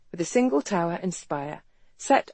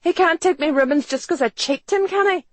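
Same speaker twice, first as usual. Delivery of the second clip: high, loud distressed market woman; loud, high-pitched tearful protest; sobbing woman; 11 semitones higher, 5 dB louder than usual. A narrator's reading. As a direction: wail your complaint, voice climbing. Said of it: "The sobbing woman turned to Ransom".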